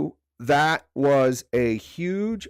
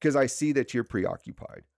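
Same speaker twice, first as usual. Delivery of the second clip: polite request. Retold or imitated. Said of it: "very politely say".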